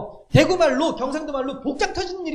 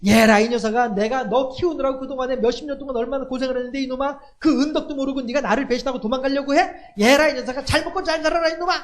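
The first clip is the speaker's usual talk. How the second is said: mock cursing mother. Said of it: "그렇게 저주하면서 보내지 못한다고요".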